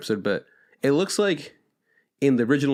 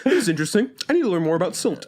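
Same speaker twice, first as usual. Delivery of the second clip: mock curious nerd; 7 semitones higher, faster than usual. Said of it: "where it's like".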